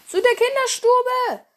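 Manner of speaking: high, loud charge call; full-throated war cry; battle cry. Acted. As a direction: yell the attack order. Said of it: "rief ihnen zu".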